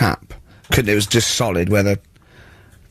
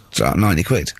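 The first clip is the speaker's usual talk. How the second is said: a mildly lowered, matter-of-fact locksmith; low flat tradesman quote; 7 semitones lower than usual. Retold or imitated. Locksmith telling a locked-out man his fee, flat and low.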